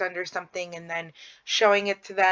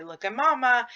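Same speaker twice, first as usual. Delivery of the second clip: put-on higher, coaxing cue to a baby; bright baby talk; 5 semitones higher than usual. Shown as a demonstration. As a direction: steer the baby's gaze to mama. Parent directing baby's gaze.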